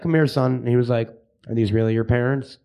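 mild imitation of a suspicious cop; stern cop. Cop questioning the nine-year-old.

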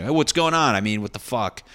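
loud stage call-out; calling out the crowd. Retold or imitated. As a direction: snap at the talkers from the stage.

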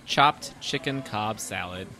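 hushed reading. Acted. Hushed reading of menu item.

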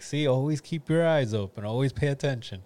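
hint of a homeless man's mock wisdom; imitating homeless man. Homeless man at the bus stop warns the teller, lightly voiced.

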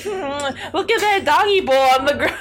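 loud high pointed change of subject; deflecting. Retold or imitated. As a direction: steer away loudly, laughing. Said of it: "I was like".

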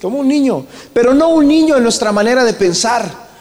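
lifted, fervent preacher's call; rally the congregation with the verse; preaching. Acted.

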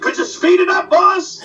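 high, raspy-free sidekick heckle from the background; Rochester voice. Retold or imitated. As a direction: pipe up high like a cheeky valet. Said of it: "doing Benny and Rochester".

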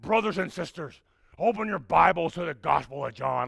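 light take on a booming Baptist preacher; hint of a Sunday-morning preacher calling the church to open their Bibles; old-timey Baptist preacher. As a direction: intone it like an old-school pulpit preacher. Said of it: "that kind of voice".

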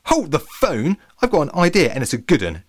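high-pitched burst of sudden inspiration; exclaiming. A narrator's reading. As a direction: exclaim it, struck by an idea. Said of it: "Jenny exclaimed".

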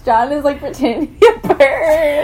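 giggling through the words; laughing. Real, not acted. Friend acts like bird.

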